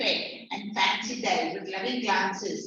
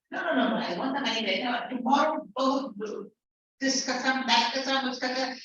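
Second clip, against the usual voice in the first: insistent scammer; 3 semitones higher, faster than usual. Acted. Acted scammer insisting, swearing oaths.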